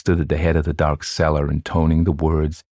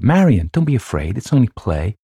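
higher-voiced mother reassuring across a room; speaking up; 6 semitones higher, 4 dB louder than usual. A narrator's reading. Louise tells child it's only play, speaking up. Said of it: "Louise spoke up".

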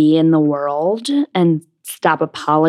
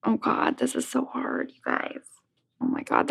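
whispering; 8 semitones higher, 11 dB quieter than usual. Real, not acted. Overwhelmed by the final question.

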